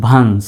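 "ভান্স" ending on the s; without final d. Shown as a demonstration. Teacher showing the word without its d, "ভান্স" ending on s. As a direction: say "ভান্স" as vans, no stop after it. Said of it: "silent থাকতো".

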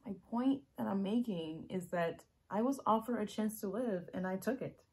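loud and insistent; urgent, full-voiced confession; emphatic explanation. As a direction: drive the point home forcefully. Acted monologue, emphatic second take.

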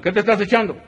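high, teasing voices; comic prison banter. Acted. Prisoners banter in their cell, high and teasing. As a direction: tease slyly.

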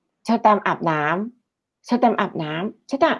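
put-on slow, soft, worn-out repeated call to the kid; weary nagging call. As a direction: nag the child to shower, tired and slow. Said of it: "พูดทีเดียวไม่ลุกไปทำ แบบ". (เรียกลูกซ้ำๆ ช้าๆ เบาๆ อย่างเหนื่อยหน่าย)

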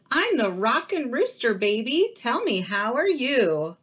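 rockin' rooster. Acted.

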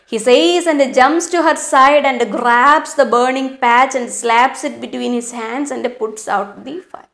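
slow, deliberate reading of the story. A narrator's reading. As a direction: read each phrase slowly for the class. Teacher reads story aloud. (പതുക്കെയുള്ള കഥ വായന)

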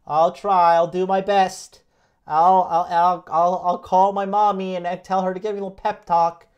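lightly voiced mock half-hearted follower; mocking the viewers. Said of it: "And that's you guys".

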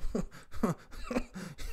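breathy, voiceless chuckle; amused laugh. Real, not acted. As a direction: laugh to yourself between phrases. Laughs at his own remark.

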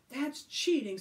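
loud, high angry accusation. Acted. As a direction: accuse them angrily. Billy angry.

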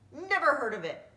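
high, loud pirate retort; puzzled pirates. Acted. Pirates answer about the plank, high loud baffled voices. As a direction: bark it out, baffled. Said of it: "said the pirates".

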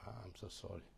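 a touch of contrition; soft humble sorry. Acted. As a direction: say sorry quietly, heartfelt. Example apology to spouse.

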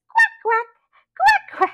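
very high, loud quacks; duck quacking. Shown as a demonstration. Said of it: "What does a duck say?".

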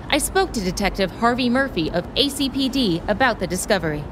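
formal TV news delivery; news report. Acted. Reporter delivering the evening crime report to camera, news style.

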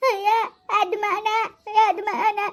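put-on childlike tearful wail; weeping victim struggling to speak; crying. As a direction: sob the words out in broken bits. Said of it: "ಅಳ್ಬೇಡ ಕಣವ".

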